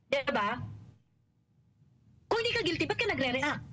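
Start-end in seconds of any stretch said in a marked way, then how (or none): 2.3-3.6 restating his logic. Retold or imitated. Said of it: "If we're going to follow the logic".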